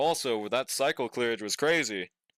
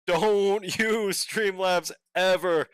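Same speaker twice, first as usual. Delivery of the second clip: emphatic warning; 5 semitones higher, 4 dB louder, much slower than usual. Real, not acted. Repeats warning, laughing.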